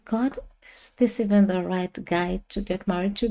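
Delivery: softly voiced private question to God; inner thought. Bride-to-be asks God in her head, quietly wondering. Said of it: "I thought in my head".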